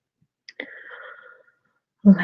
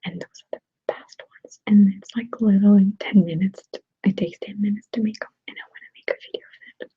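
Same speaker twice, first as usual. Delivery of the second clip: ASMR whisper. Real, not acted. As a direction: whisper casually, as if chatting to ASMR viewers. ASMR whisper held throughout.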